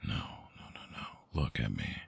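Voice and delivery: soft whispered no; quiet soothing denial; hushed reassurance. Acted. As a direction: whisper to calm them down. Comforting the worried listener.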